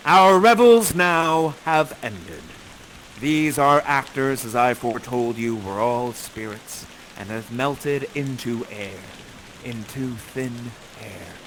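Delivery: slow, measured Shakespeare speech; grave, rolling verse; solemn verse recital. Acted. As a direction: deliver Prospero's farewell like a closing blessing. Closing Prospero speech.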